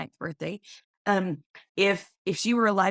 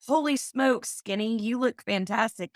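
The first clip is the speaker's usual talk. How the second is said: bright, raised exclamation of delight; excited greeting; 4 semitones higher than usual. Retold or imitated. Greeting a slimmed-down dad at school, raised and excited. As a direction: gush at a friend who lost weight. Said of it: "I walk by and I go".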